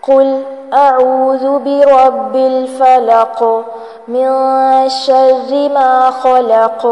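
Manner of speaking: slow, drawn-out tajweed chant; Quran recitation. Acted. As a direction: recite each verse slowly with long held vowels.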